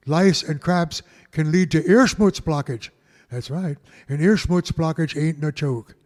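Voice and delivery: radio announcer. Acted. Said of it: "I sound like Ricky Radio".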